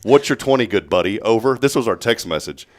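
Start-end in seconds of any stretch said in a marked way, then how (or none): 0.0-1.6 CB talk. Retold or imitated. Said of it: "respond in C B talk".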